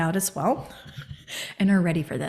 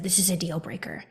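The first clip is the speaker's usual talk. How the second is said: whispered resolve; 7 dB quieter than usual. Retold or imitated. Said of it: "That's how intense it".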